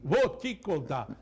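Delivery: upbeat supermarket ad read; market barker. Acted. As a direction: sell the deals like a market barker. Sponsor ad read mid-show.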